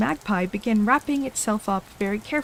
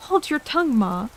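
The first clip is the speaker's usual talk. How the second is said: put-on higher, snappish young crab; a little snappish; 3 semitones higher, 3 dB louder than usual. Young crab snapping at her mother, a little snappish. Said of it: "said the young crab a little snappishly".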